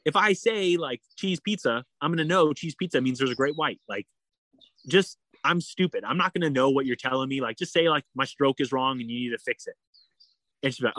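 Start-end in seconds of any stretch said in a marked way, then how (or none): 0.1-9.8 retold exasperation, pitched up; exasperated objection. Swimmer to kayaker over the safe word, mildly exasperated. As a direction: argue back as if it's absurd.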